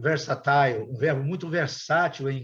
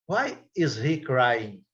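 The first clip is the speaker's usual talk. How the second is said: slow demo sentence; 2 semitones lower, much slower than usual. Shown as a demonstration. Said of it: "teacher models English slowly".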